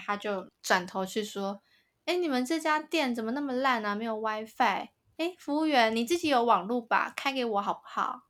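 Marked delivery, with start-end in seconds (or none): 2.1-8.2 imitating rude customer. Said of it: "我刚刚为什么要学她讲话".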